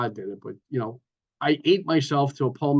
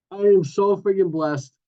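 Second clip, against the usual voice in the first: louder, slow, heartfelt burst of thanks; overjoyed gratitude; 5 semitones higher, 6 dB louder, slower than usual. Real, not acted. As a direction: lean into every word, overflowing with gratitude. Grateful burst at recovery meeting.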